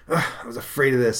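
put-on fretful, hurried teen brother; Hank. Hank trapped with Don, mildly worried young hero voice.

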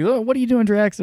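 high-pitched mock scolding of Drax; a shrill, put-on Gamora pleading with him; Gamora, shocked. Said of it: "Gamora like".

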